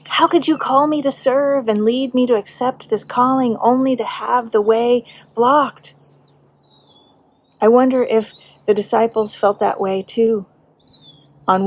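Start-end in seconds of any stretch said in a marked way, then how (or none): 0.0-6.0 mild retold anger, pitched up; angry at God. Preacher recalls challenging God over her blocked calling, mildly angry. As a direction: plead up at God with a touch of angry protest. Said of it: "I was very angry with God".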